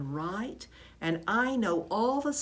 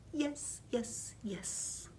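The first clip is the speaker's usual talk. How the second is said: eager squeak; 6 semitones higher, 6 dB quieter, much slower than usual. A narrator's reading. Hamster eager reply.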